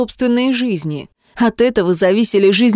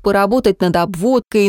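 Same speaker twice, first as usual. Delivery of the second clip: ordinary delivery, nothing marked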